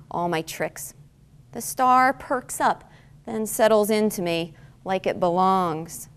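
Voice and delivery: measured poem reading with deliberate pauses; poetry reading. Acted. Poet reads star poem to lunchtime audience, measured poetry reading. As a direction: read it line by line, lingering on key words.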